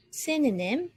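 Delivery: SYN-o-nym, first syllable strong; stress on the first syllable. Shown as a demonstration. Teacher modelling synonym for learners, stressing SYN. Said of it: "put the stress on the first one".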